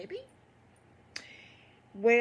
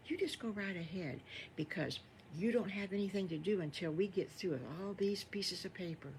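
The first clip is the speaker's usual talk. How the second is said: softly reassuring, a touch quieter; soothing; 4 dB quieter than usual. Acted. Missus Farmer Brown reassuring the wolf, softly tender. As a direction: gently comfort the wolf. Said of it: "She says".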